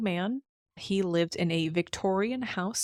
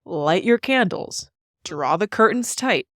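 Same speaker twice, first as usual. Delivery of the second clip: haunting voice; 4 dB louder than usual. Acted. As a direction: invite them in like a gothic host. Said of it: "Host in a deep, haunting voice".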